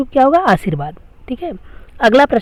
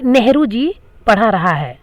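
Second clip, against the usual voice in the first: wrong sentence read out slowly, word by word; slow quoted example. Shown as a demonstration. Teacher reading a wrong sentence aloud to students, slow and deliberate. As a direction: spell out the faulty sentence for the class. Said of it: "देखिए बोलने से ही लग रहा है".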